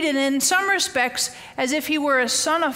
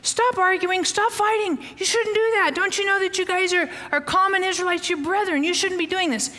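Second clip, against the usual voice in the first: higher, earnest pleading to stop the fight; 4 semitones higher than usual. Retold or imitated. Moses pleads with two arguing Hebrew slaves, raised and urgent. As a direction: break up the brawl with a raised, urgent voice. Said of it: "Moses interjects himself and says".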